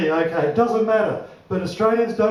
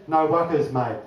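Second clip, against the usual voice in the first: lower, laid-back Aussie "No wuckers"; Aussie tradie; 5 semitones lower than usual. Retold or imitated. Neighbour tree lopper on the phone, laid-back Aussie. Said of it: "He said".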